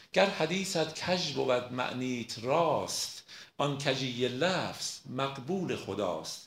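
slow, emphatic verse recitation; poem recitation. Acted. Lecturer quoting Rumi to prove his point, slow poem recitation. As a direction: recite it slowly, stretching the stressed syllables.

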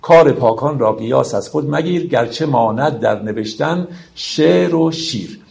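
measured verse reading, slowing at the end; poem recitation. Acted. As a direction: quote the couplet in metre. (شعرخوانی موزون)

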